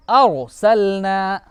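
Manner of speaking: अरसलना very slow, with a heavy, full R; thick heavy R. Shown as a demonstration. Teacher reading the example for pupils, slow thick R. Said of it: "पढ़ के हम बताते हैं".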